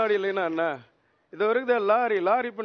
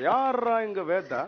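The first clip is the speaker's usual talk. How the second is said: acted challenge; slower than usual. Acted challenge repeated with new name.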